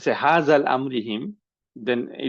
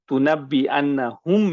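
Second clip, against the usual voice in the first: "annahum" raised and drawn out slowly; stress on annahum; 4 semitones higher, 4 dB louder than usual. Shown as a demonstration. Teacher building up a verb for students, drawn-out stress on "annahum". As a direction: stretch "annahum" through to its last syllable.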